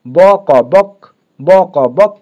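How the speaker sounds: ব ক বক spelled letter by letter, then joined into বক; spelling aloud. Shown as a demonstration. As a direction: sound out ব and ক apart, then say বক. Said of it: "অ আসছে".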